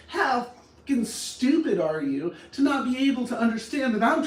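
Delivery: acted exasperated insult; heated, scornful rant; angry outburst. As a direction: lash out as a fed-up partner. Demonstrates things not to say.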